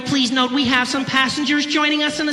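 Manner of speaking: high, loud mock cabin announcement; air hostess announcement. Hostess warning passengers that Africans are boarding, high-pitched announcer voice. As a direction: imitate a flight attendant on the microphone. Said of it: "she takes her little microphone".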